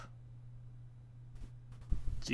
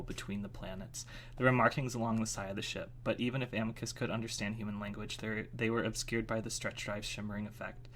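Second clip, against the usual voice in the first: story narration; 2 semitones lower than usual. A narrator's reading. Reading a chapter to listeners, even story narration.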